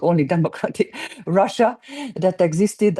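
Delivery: chuckling through the words; a wry laugh at the irony; amused aside with real laughter in it. Real, not acted. Laughs at the "democratic Russia" irony.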